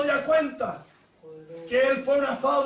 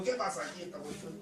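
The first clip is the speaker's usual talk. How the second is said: boss's question; 8 semitones lower, 13 dB quieter than usual. Retold or imitated.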